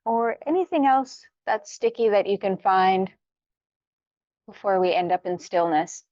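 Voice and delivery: unhurried yoga-teacher guidance with long pauses; guided meditation. Real, not acted. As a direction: gently talk them through each stretch, leaving room to breathe. Leads warm-up for meditation.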